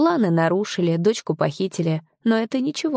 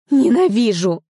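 loud, higher furious cry; angry outburst; 6 semitones higher, 6 dB louder than usual. A narrator's reading. Heroine shouting as her captor leaves. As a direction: hurl the hatred at the closed door.

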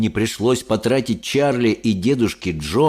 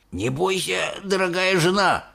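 reassuring; 9 semitones higher than usual. A narrator's reading. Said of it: "сказал дедушка Джо".

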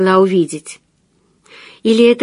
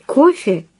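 indifferent; 6 semitones higher than usual. A narrator's reading. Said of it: "совершенно равнодушным голосом".

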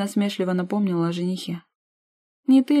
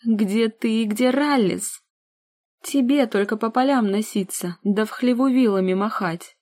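angry hiss; 4 semitones higher, 4 dB louder than usual. Acted. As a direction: sneer at her like a cross goose. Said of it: "Илона зло зашипела".

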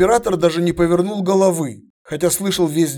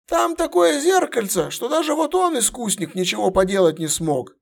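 much higher, strained veteran soldier voice; gruff centurion; 8 semitones higher than usual. Acted. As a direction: bark it like a battle-worn centurion. Centurion continues.

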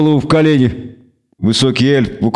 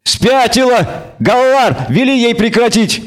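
much higher, frantic goat-like pleading; panicked bleating devil; 10 semitones higher, slower than usual. A narrator's reading. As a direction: cry for help in a thin bleat.

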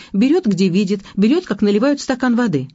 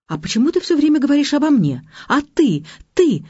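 shouting; 8 semitones higher than usual. A narrator's reading. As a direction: hurl the blame back at him. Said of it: "закричала я".

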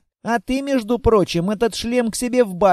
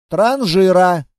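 loud retort; louder scornful retort; insult; 6 dB louder, slower than usual. Acted. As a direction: throw it back loud. Staged quarrel insult.

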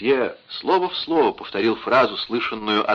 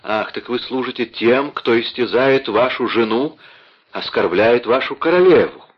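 indignant. Acted. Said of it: "воскликнула она".

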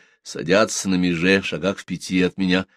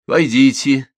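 louder, higher call; 6 semitones higher, 7 dB louder, slower than usual. A narrator's reading. Young woman answers a knock, calling out. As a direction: call through the partition.

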